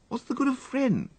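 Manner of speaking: put-on a fed-up young master snapping at his valet; petulant upper-class complaint; overwrought young gentleman. A narrator's reading. Wooster's voice in story.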